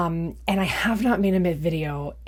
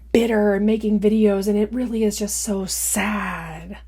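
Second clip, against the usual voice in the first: higher, fake-pitying condescension; mocking Jason's comment; 4 semitones higher than usual. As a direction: read it back as fake sympathy, higher. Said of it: "or something like that".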